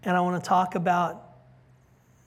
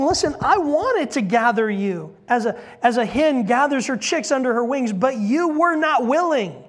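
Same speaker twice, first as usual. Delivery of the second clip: raised, pleading preacher voice; impassioned plea; 4 semitones higher, 4 dB louder than usual. Acted. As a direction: plead with them, rising. Preacher voicing Jesus pleading.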